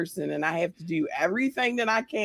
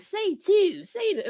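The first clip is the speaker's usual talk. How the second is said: high-pitched teasing "Say two" imitation; mocking tourist; 11 semitones higher, slower than usual. Friend retelling how people ask her to say "two", mock begging. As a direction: lightly mimic someone begging to hear a Baltimore accent. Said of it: "get me like that all the time".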